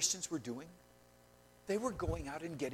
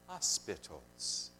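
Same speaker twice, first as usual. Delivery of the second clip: slow, drawn-out cue word; call and response; 9 semitones lower, 5 dB quieter, much slower than usual. Shown as a demonstration. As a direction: lead the congregation into the word. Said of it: "say it with me".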